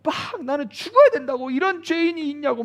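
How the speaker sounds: high, anguished mock wail of self-hatred; imitating a self-flagellating penitent, pitch climbing; self-loathing wail. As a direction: ham up a sinner crying out he deserves to die. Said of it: "막 이러-, 이러잖아요".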